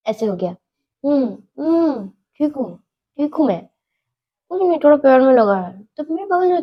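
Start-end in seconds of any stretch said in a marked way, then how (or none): 1.0-5.8 talking through a closed mouth; mouth held shut. Retold or imitated. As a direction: mumble while hiding a broken tooth. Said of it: "ऐसे क्यों बात कर रही हो". (बंद मुँह से बोलना)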